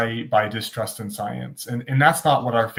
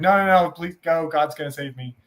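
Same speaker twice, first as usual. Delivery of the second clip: higher mock protest, easing down; insistent refusal; 5 semitones higher than usual. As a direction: wave the rescuers off, lightly acted. Stranded man waving off rescuers.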